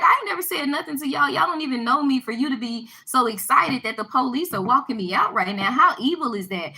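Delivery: confronting women pleased she is being walked out; indignant retort. Retold or imitated. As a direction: throw it back at them, offended. Confronting women glad she's escorted.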